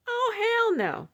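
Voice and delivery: high, loud, drawn-out refusal; indignant refusal. Real, not acted. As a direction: refuse it outright, loud and stretched. Indignant refusal while telling story.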